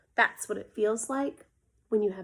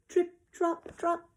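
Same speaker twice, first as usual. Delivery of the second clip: light drops; 7 semitones higher, slower than usual. A narrator's reading. Drops landing.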